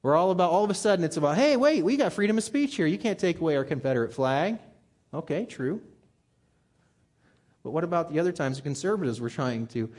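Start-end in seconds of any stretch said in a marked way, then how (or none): 1.3-4.6 higher, louder "Hey, wait" that drops back by the end; mock indignant protest. Preacher mimicking indignant flag defenders with mock outrage.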